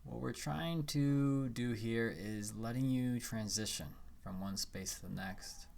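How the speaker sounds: calm guiding voice with long pauses; unhurried phrases, leaving room to breathe; guided meditation. Acted.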